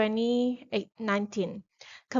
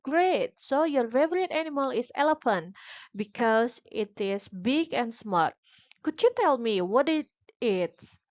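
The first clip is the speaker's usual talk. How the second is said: upbeat teacher praise. Retold or imitated. Teacher feedback voiced.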